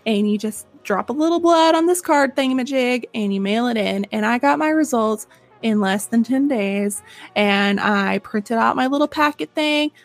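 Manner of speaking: lively, chatty sponsor read; scripted pitch with personal asides; podcast ad read. Acted. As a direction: sell it to listeners like trusted friends. Reads a sponsor's advertisement.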